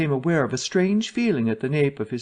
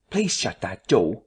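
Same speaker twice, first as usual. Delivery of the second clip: a touch of irritation, a little lower and slow; mildly irritated request to shut the door; irritably; 5 semitones lower than usual. Acted. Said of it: "said Mister Cuss irritably".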